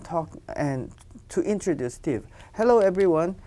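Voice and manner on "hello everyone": 1 calling for attention. Acted. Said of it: "I want to get everybody's attention".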